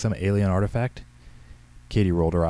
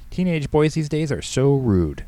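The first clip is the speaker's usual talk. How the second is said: high, loud, slow indignation; affronted old lady, drawn out; grumbling; 7 semitones higher, 6 dB louder, slower than usual. A narrator's reading. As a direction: grumble slowly with offended emphasis. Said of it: "Henrietta grumbled".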